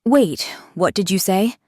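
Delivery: eagerly curious; brimming curiosity. Acted. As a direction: ask with wide-eyed interest. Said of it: "his tone brimming with curiosity".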